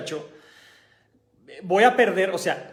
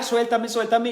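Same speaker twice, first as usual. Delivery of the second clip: mild mock yell; 5 semitones higher than usual. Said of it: "empezó a gritar".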